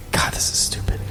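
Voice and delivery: normal talking voice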